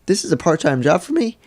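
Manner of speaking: a worker telling off his boss, mock furious; retold angry outburst. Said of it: "And I just went".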